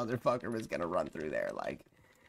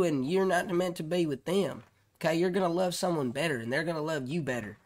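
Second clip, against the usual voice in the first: joking Southern preacher of love advice; southern accent; 2 semitones higher than usual. Pretend. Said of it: "I might be saying it in a southern accent like it's a joke".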